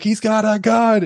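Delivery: high, drawn-out mock scream; imitated scream. Woman on the phone to emergency operator, imitated screaming. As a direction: imitate a panicked phone scream without full volume. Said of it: "on the phone screaming".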